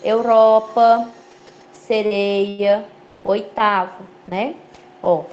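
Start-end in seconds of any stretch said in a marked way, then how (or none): 0.0-1.1 "Europa" slow, with closed eu at the start; slow demonstrated "Europa"; closed diphthong. Shown as a demonstration. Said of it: "os ditongos são fechados". 1.7-2.9 "sereia" with a closed ei; demonstrated closed diphthong in "sereia". Shown as a demonstration. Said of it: "os ditongos são fechados".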